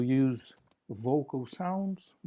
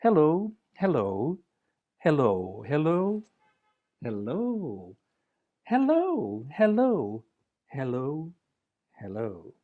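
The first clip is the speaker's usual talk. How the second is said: varied hellos; slower than usual. Shown as a demonstration. Greeting fingers with playful varied hellos. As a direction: play with each hello, up and down. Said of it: "Say hello to your fingers".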